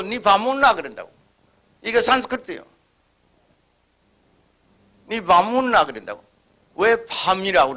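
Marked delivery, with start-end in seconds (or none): 0.0-0.7 Gyeongsang dialect. Retold or imitated. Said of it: "또 경상도 뭐". 5.1-5.8 Gyeongsang dialect. Retold or imitated. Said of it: "또 경상도 뭐".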